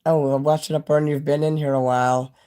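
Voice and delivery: talking around a retainer; wearing a retainer. Real, not acted. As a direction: retainer in the mouth. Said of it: "My retainer's bothering me here".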